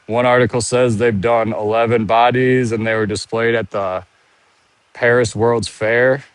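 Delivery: winded from walking while talking; out of breath. Real, not acted. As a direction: talk a little short of breath. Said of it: "I'm out of breath from walking around and talking".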